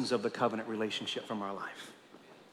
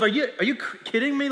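quick, higher, laughing disbelief; incredulous God; 7 semitones higher, much faster than usual. Acted. Preacher voicing God's disbelief, quick and laughing. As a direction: toss it off in amazed disbelief. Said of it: "the Lord is saying to them".

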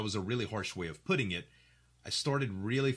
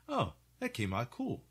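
low-energy excitement; 3 semitones higher than usual. Retold or imitated. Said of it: "I'd be like".

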